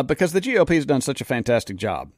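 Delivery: dry sarcasm, deadpan; sarcastic. Real, not acted. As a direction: say it with a sarcastic edge. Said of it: "I added that last little part kind of sarcastically".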